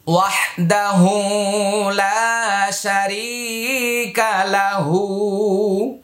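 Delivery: slow, drawn-out Quranic recitation. Shown as a demonstration. Teacher modelling the phrase for learners to memorise, slow chant. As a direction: draw each vowel out like a reciter. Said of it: "এই খাড়া উল্টা পেশ এক আলিফ টান".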